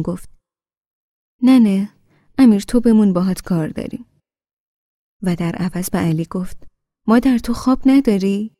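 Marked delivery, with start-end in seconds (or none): 1.4-4.1 loud call across the room. Acted. Grandmother calls Amir back. 7.1-8.5 high, loud teasing scold; raised voice. Acted. Grandmother sends Ali to bed.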